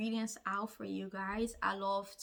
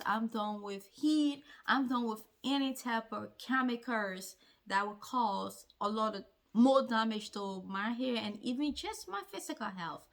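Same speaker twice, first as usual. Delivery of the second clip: firm resolve. Retold or imitated. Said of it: "I told myself".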